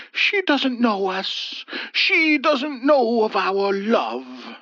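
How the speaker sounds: mild tearful plea, slow; a touch of a sob, understated; sobbing. A narrator's reading. Ethel sobbing on her husband's shoulder, mildly tearful. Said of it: "Ethel sobbed".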